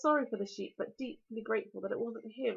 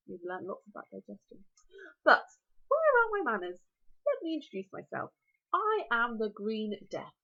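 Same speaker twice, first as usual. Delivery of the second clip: dragon voice. Acted. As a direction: relish every word like a huge dragon.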